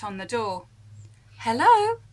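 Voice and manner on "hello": calling out. Acted. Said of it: "she called".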